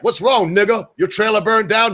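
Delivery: high-pitched mock teasing; imitated Black coworkers. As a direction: imitate workmates ribbing a latecomer, pitched well up. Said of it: "The black boys".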